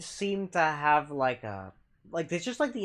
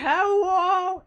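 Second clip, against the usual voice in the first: excited greeting; 13 semitones higher, 7 dB louder than usual. Retold or imitated. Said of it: "And Meatball saying".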